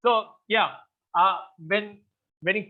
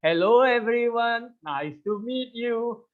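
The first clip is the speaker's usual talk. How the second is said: put-on talking down to kids; 4 semitones higher than usual. Imitating a friend opening his Toastmasters speech, kiddy sing-song. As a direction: greet the room like a class of ten-year-olds. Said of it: "he will start his speech like".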